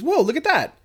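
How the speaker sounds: high mock excited whoa; imitating girlfriend spotting something. Girlfriend quoted pointing.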